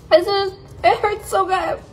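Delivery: high, laughing through the sour; laughing while it stings; eating sour candy. Real, not acted.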